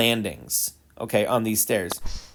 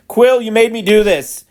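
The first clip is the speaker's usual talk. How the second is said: mock anger; 6 semitones higher, 5 dB louder than usual. Real, not acted. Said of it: "Now I'm angry".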